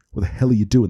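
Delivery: imitated irritation, quick and held back; subdued anger. Podcaster retelling Ross's dropped-cake line, mildly angry and subdued. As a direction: quote him crossly without going over the top. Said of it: "he says it so angrily and, but so subdued".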